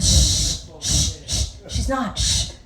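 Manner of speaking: breathy shh to hush the room; playful shushing. Real, not acted. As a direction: hush them quickly. Hushing the audience.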